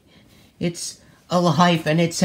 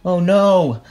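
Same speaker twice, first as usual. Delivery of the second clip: desperate cries; 6 semitones higher, slower than usual. Acted. Ponies watch Spike in danger, desperate cries. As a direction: cry out in horror.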